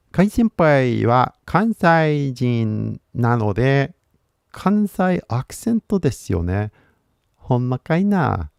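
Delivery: put-on Kansai lilt; Kansai accent. Streamer teasing that Kai senpai is from Kansai, Kansai accent. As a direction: play up a Kansai accent, drawn out at first.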